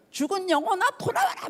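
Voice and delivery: hammed-up solemn summons rising very high; grandiose command. Preacher mocking a grandiose call to the dead, pompous. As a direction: overblown mock incantation. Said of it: "뭐 거창하게".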